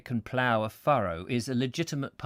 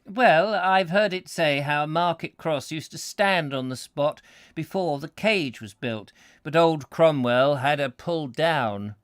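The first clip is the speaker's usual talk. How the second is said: lightly voiced country yokel, slow; a hint of an old rural villager's drawl; rustic villager; 3 semitones higher, 5 dB louder than usual. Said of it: "we further inquired".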